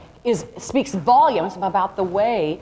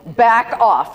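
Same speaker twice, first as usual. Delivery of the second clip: a sharp, louder "back off"; defensive "back off", noticeably louder; back off attitude; 7 dB louder than usual. Shown as a demonstration. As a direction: push them away with the voice. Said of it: "I have an attitude going on".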